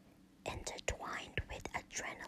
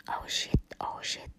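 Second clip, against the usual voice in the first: monotone yell; 6 dB louder than usual. Acted. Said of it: "his monotone voice managed to yell".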